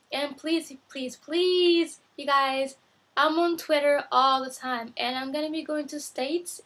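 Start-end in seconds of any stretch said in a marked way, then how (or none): 0.1-2.8 pleading. Real, not acted. Vlogger begging viewers to come find her, pleading. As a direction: beg them with rising insistence.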